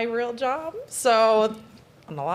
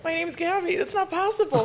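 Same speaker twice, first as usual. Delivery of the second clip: laughing; 7 semitones higher than usual. Real, not acted. Laughing reply to question.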